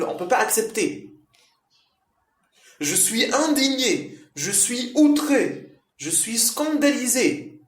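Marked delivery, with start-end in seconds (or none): 2.8-7.6 much higher, outraged and emphatic; teacher acting out outrage for students; indignant demo. Shown as a demonstration. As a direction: play the offended one, voice rising. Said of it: "je suis tellement en colère".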